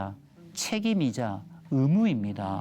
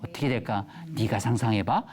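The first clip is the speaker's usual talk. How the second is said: teasing bedtime mom; 5 semitones lower than usual. Shown as a demonstration. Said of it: "괴테 엄마 시범".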